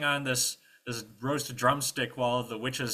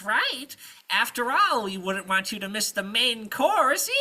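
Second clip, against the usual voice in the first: high, loud menacing sweetness; hint slyly at what is cooking; sly witch; 14 semitones higher, 8 dB louder than usual. Acted. Witch sharpening knives speaks.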